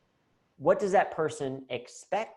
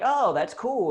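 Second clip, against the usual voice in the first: high, louder gushing; mock impressed; 9 semitones higher, 6 dB louder, slower than usual. Club owners gushing at Irish Dave, higher and louder. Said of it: "And they're like".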